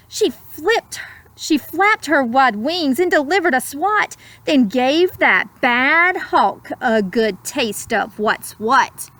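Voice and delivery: put-on slow, lilting read-aloud to children; gentle rhyming storyteller; storybook narration. A narrator's reading. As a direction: savour each word like a bedtime story. Rhyming picture-book narration.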